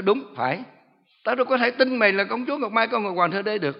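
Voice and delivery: high, loud scornful retort; scornful rebuke. Retold or imitated. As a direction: scoff at the demon's claim. Pastor rebukes the demon. (giọng khinh bỉ quở trách)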